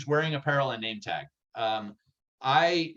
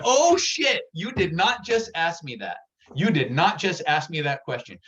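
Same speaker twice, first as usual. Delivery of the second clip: shocked surprise; 3 semitones higher, 4 dB louder than usual. Retold or imitated. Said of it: "And I was like".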